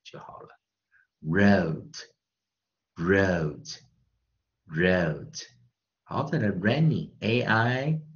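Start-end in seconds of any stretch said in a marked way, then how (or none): 1.2-5.4 "wrote" slow and drawn out, three separate times; pronunciation model. Shown as a demonstration. Teacher drilling the class on wrote, slow and deliberate. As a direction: model wrote slowly with its long O and closing consonant. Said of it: "所以就念wrote".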